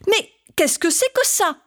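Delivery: a touch of startled Mamé; surprised grandma. Acted. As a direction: gasp at the sight. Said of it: "tellement surprise".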